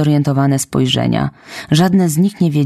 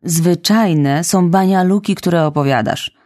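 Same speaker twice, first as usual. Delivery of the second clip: curt; 3 semitones higher than usual. Acted. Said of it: "niezbyt uprzejmie".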